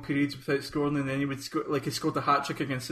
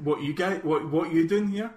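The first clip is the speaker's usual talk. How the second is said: lightly imitated Cockney accent; a hint of Cockney. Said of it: "he shouted in this Cockney accent".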